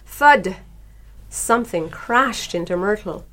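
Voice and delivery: lively, animated picture-book narration; story reading to children. A narrator's reading. Author reads her turtle book to radio listeners, animated storytelling. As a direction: read it like a picture book, emphatic, swooping pitch.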